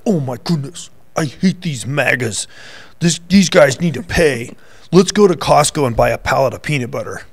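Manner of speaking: a hint of Valley Girl accent, lightly voiced; lightly mock a Valley Girl accent. Imitating an angry protester in a light Valley Girl accent. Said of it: "you do a Valley Girl accent".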